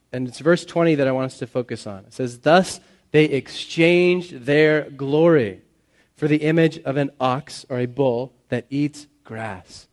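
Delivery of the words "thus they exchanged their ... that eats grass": slow, pointed sarcastic reading; slow and deliberate, letting the absurdity land. Acted. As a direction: draw the verse out with dry sarcasm. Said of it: "can you hear the sarcasm there".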